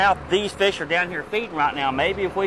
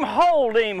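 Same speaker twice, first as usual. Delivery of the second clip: excited call; 3 semitones higher than usual. Real, not acted. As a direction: call it firmly. Fish fighting on line.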